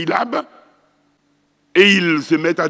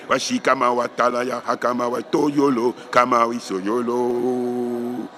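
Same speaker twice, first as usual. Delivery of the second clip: spoken tongues syllables; 2 semitones lower than usual. Shown as a demonstration. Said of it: "les syllabes qui vous viennent".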